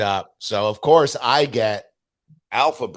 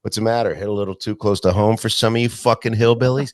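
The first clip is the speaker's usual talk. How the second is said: 1 mock taunt; 3 semitones higher, 7 dB louder than usual. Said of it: "he'd be like".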